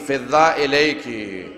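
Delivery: a drawn-out low lament, each syllable stretched; slow anguished call. Retold or imitated. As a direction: call out slowly as if for help in grief. Fatima calls out for help. (دھیمی، کھنچی ہوئی فریاد)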